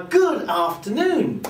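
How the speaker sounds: slow greeting with exaggerated ups and downs; pitch variation. Shown as a demonstration. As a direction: swing the pitch up and down, drawn out. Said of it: "you're using a variation of pitch".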